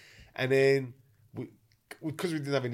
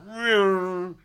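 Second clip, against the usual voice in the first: mock meow; 6 semitones higher, 6 dB louder than usual.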